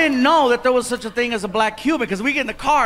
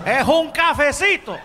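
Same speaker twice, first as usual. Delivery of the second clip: waiter; 5 semitones higher than usual. Retold or imitated. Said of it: "What is this?".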